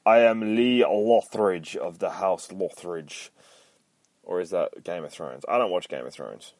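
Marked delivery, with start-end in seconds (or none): 0.1-3.3 slow, louder mock Viking proclamation; hammed-up Viking lord, slow and grand. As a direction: announce yourself like a lightly played Norse warrior chief. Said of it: "he sounds like a Viking".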